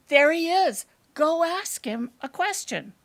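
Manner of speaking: excited urging. Acted. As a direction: urge your husband on excitedly. Urging husband toward the old man.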